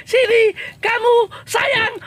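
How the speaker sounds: slow, sweet coaxing to a little crab; coaxing call. Real, not acted. Vlogger coaxing a hermit crab out of hiding, slow and sweet. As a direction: draw it out gently, like luring a pet.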